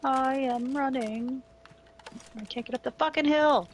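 strained and frustrated; pushing against the hill. Real, not acted. Stuck climbing the hill.

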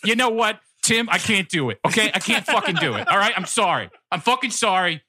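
tags. Acted. Martin Short character rant.

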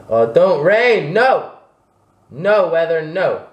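high, pleading protest at the weather; dismayed outcry. Real, not acted. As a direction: cry out in dismay. Pleading with the rain.

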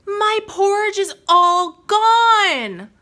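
Mama Bear. A narrator's reading. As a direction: wail it like a shocked mother bear. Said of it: "And Mama Bear said".

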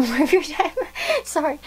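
talking through a laugh; real laughter. Real, not acted. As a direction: laugh your way into a sorry. Breaks into laughter while apologising.

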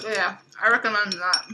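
talking through a mouthful; words around a bite of food; mouth full. Real, not acted. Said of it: "don't let me talk with my mouth full".

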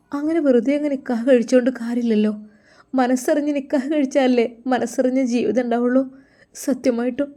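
a daughter begging to be understood; lovesick daughter. Acted.

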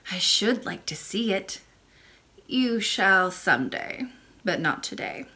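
put-on a gentle old grandmother speaking; old lady voice. Old lady answers the princess.

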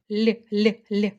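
л sounded softly three times; soft л drill. Shown as a demonstration. Teacher sounds out soft л for pupils. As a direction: repeat л alone to show its softness. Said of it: "м'яко звучить".

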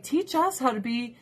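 mocking, with a laugh breaking in; a sarcastic quote that cracks into laughter. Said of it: "Tiki Torch guys would be like".

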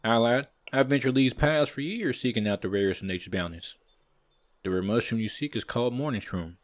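rough attempt at a southern accent; southern huntsman accent. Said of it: "I'm gonna keep 'em southern".

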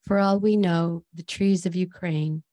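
measured poetry reading with pauses between lines; deliberate, evenly paced recital of a poem. Acted. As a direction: read it as a solemn poem, line by line. Reads own poem aloud.

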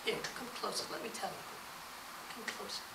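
very soft, low whisper; whispering a secret. Acted. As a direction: lure them in with a whisper. Malfoy luring them closer.

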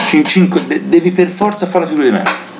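disbelieving fan venting in anger; explosive italian cursing. Real, not acted. Exasperated rant about humiliation.

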